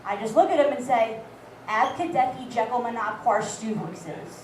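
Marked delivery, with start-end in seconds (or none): 1.7-4.3 slurred alphabet. Retold or imitated. Drunk reciting the alphabet.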